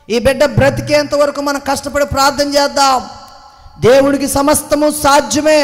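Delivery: building from steady talk to a loud preaching call; retold pastor rising into a loud sermon; pastor's rallying call. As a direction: rouse the church like the pastor did. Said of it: "pastor గారు ఒకటే చెప్పాడు".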